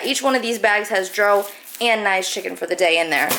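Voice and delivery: hiccuping mid-sentence; words broken by hiccups. Real, not acted. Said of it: "I have the hiccups".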